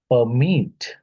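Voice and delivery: "permit" as per-MIT, second syllable drawn out; "permit" with weight on its last syllable; stress on second syllable. Shown as a demonstration. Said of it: "second syllable".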